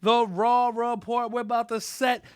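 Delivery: big, drawn-out announcer welcome; show opening. Shown as a demonstration. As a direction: stretch out the show title like a loud host. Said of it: "is how I start the show".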